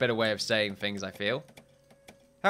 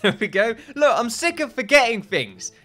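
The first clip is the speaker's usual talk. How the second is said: excited; 10 semitones higher, 7 dB louder than usual. Real, not acted. Excited outburst after remembering name.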